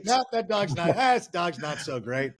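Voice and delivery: lightly voiced deadpan punchline; a hint of a folksy comic shrugging off the joke; Norm Macdonald impression. Repeating the punchline in a light Norm Macdonald voice for the hosts. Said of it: "the dumb Norm Macdonald thing".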